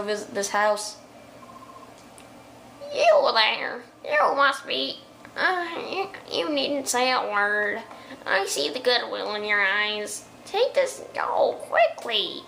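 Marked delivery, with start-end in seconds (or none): 2.9-12.4 lightly voiced slow old woman; a hint of a frail old lady, slow and gentle. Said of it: "that old lady voice".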